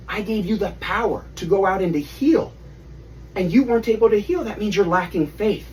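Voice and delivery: a mild rebuke to his disciples; disappointed Jesus. Acted.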